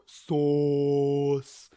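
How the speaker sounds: blunt loud single word; flat one-word reply. Retold or imitated. Rich answering Jen about the sauce, blunt and loud. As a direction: answer like you missed the question. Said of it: "I go".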